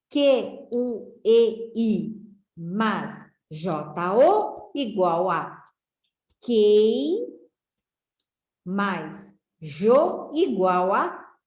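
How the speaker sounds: spelled out slowly, each letter set apart; slow letter-by-letter spelling. Shown as a demonstration. Teacher spelling quatro out for pupils, slowly. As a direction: build the word for the class piece by piece. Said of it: "Eu precisei juntar as duas sílabas".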